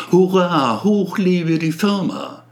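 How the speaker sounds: shouted high hurrah; loud cheer. Acted. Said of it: "ein lautstarkes".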